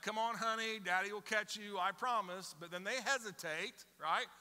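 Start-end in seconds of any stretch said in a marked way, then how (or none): 0.0-2.6 sweet coaxing dad. Retold or imitated.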